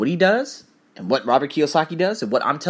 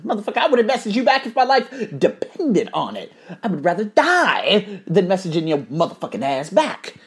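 laughing rant; 6 semitones higher than usual. Real, not acted. Laughing while ranting at the lazy caller.

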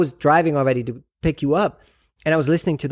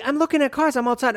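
much higher mock of her innocent voice; clueless cheery; 10 semitones higher than usual. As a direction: sound happily oblivious. Mimicking girlfriend's clueless answer.

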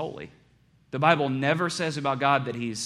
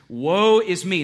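1 anguished cry; 4 semitones higher, 6 dB louder, slower than usual. Acted. Prophet cries out before God.

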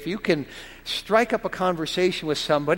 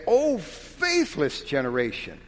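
lamenting. Acted. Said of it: "the lamenting in the Savior's voice".

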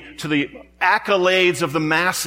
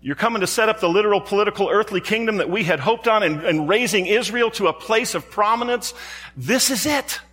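much higher, eager crowd voice; excited crowd; 6 semitones higher than usual. Retold or imitated. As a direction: sound like followers sure they have it figured out. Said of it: "That they were saying".

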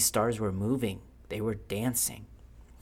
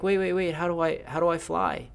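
high, louder plea in a storyteller's acted voice; urgent calling out; 9 semitones higher, 4 dB louder than usual. Lewis calling after the firefly as it flies off, urgent. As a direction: call after someone who is leaving.

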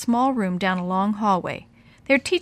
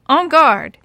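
playful challenge; 6 semitones higher, 9 dB louder than usual. Acted. Kids pretend sword fight.

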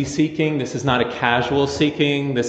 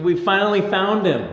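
eager Magi; 5 semitones higher than usual. Retold or imitated. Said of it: "they think".

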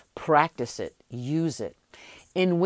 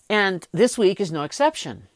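whispering. Real, not acted. Repeated catchphrase, whispered.

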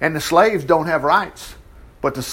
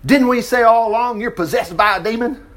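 higher-pitched, accusing challenge; mild mock snarl; 5 semitones higher than usual. Leaders accuse Jesus of having a demon, mildly snarling. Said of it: "they snarled".

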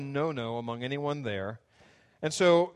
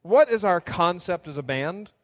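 calling out to the band; 3 semitones higher, 6 dB louder than usual. Retold or imitated. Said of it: "Doctor Lee looks out at all the sophomores".

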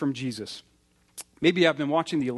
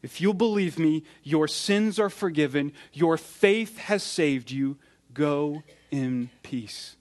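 gentle blessing. Retold or imitated. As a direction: send her off in peace, gently. That's the shepherd's voice.

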